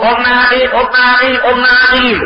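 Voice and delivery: acted call to someone inside a tent. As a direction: hail her from outside. Rider calls at tent.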